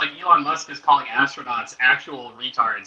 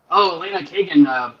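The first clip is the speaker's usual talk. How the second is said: imitating a TV host's gossip, pitched up and loud; mock gossip anchor; 7 semitones higher, 5 dB louder than usual. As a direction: ham up a breathless gossip report. Mocking Megyn Kelly's gossip story.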